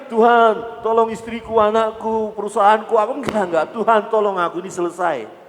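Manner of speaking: high, loud urgent begging; frantic pleading prayer. Pretend. Believer in a crisis begging God, high and loud. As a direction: pray like the plane is going down.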